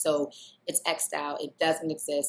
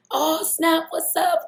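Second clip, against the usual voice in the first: much higher, louder excited hello; imitating her own over-the-top greeting; mock excited greeting; 13 semitones higher, 8 dB louder, slower than usual. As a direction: play up the surprised greeting. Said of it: "and I'm like".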